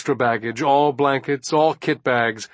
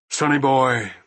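strained patience; 2 semitones higher than usual. A narrator's reading. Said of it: "he said patiently, disgustedly".

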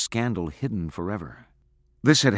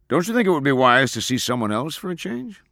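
lightly voiced father, pitched up and emphatic; a touch louder, urging a daughter; father's advice; 7 semitones higher, 5 dB louder than usual. A narrator's reading. Father steering daughter away from her fiancé, urging.

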